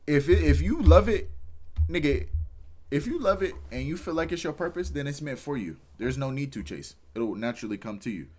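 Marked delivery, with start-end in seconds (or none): 0.1-5.8 rising, loud and passionate; fired up. Real, not acted. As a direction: preach it with sudden fire. Passionate burst about loving your work.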